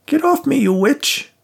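put-on high, loud old woman shout. A narrator's reading. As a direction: yell it while being grabbed. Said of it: "Rose shouted".

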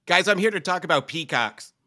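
put-on weak Boston accent. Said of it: "your Boston accent needs work there".

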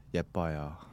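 hushed creepy whisper of a compliment. Pretend. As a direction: say it low and creepy, then run. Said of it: "in my creepy voice".

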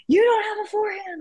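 high-pitched frustrated mock yell; retold scream. Player yelling at herself after a bad forehand, retold scream. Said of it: "I would just scream".

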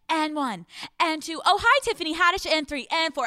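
high, perky workout counting; mom doing jazzercise. Retold or imitated. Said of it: "my mom jumps back ... doing fucking jazzercise".

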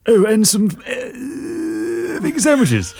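put-on high wavering old woman; quavering elderly lady.

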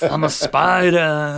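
slow, stretched-out silly announcement; playful, lingering put-on spider voice; mock spider-man voice. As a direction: draw it out as a lightly hammed-up creature. Jokingly playing the fake-armed spider man.

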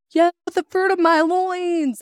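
high, loud, drawn-out whoop of joy; stoked. Retold or imitated. Wife imitating husband cheering on the kitchen counter, stoked. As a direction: imitate an overjoyed, triumphant cheer. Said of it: "he was like stoked".

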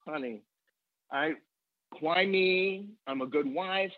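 a hint of a grieving widow, slowing toward the end; grandmother's lament. Grandmother telling her grandchild how unfair it was. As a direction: gently mimic her self-pity, drawn out. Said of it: "And she said".

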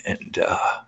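real tears catching the voice, breath only; words breaking into a silent sob; choking up. Real, not acted. Telling a podcast host about his dad's eulogy, choking up. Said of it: "I'm gonna get emotional".

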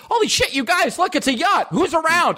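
very high squawking seabird voice; shrill screeching bird woman. Acted. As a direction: squawk it like a greedy gull. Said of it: "and it's just like".

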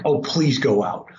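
imitated earnest plea; plead, pitch lifting on the last please; begging. Husband begging his wife to go out, pleading. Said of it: "begging her".

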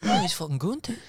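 high laughing pilot voice. Pretend. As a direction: laugh through the announcement. Laughing while playing the pilot.

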